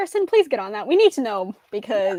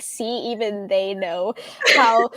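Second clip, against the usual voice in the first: mocking roast; 3 semitones lower, slower than usual. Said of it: "They would have been like".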